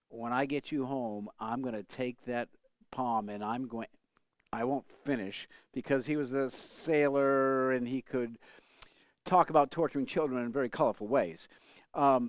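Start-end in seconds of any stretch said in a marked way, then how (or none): 0.2-4.7 mock low snarling voice. Retelling the speaker's father threatening a child, imitating a low snarl. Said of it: "in a low voice snarl".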